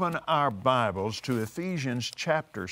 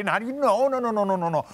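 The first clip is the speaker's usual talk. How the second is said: chuckling through a string of noes; real amused chuckle over the repeated no; laughing no; 5 semitones higher, 3 dB louder, faster than usual. Real, not acted. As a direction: laugh as you keep saying no. Laughing at the memory.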